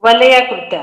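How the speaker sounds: वलयाकृता with a full ल before long या; correct pronunciation. Shown as a demonstration. Teacher repeating the correction, clear model of वलयाकृता. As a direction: say वलयाकृता in distinct syllables. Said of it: "वलया, वलय नहीं".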